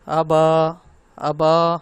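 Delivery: آبا with short first vowel, long با; second vowel overlong. Shown as a demonstration. Teacher mimics learners' second mistake, با in آبا overlong. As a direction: drag out the با at the end of آبا. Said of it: "با لمبا ہو رہا ہے".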